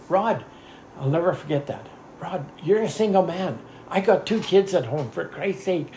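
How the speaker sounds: pleading with coworker Rod to open the door; urgent plea. Retold or imitated. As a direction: urge the single man to go.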